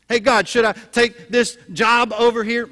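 hammed-up loud asking; mock eager prayer. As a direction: call up to God for a quick answer. Acting out a demanding prayer.

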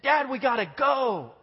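put-on high, slow frightened plea in a child voice; a hint of a terrified little boy; scared kid. Frightened son pleading with dad, high and slow. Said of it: "he's scared".

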